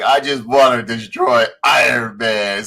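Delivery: a slow, strained mock cry; villain's outburst. Beaten villain vowing revenge on Iron Man, mock wail. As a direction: lightly act out a villain's drawn-out wail.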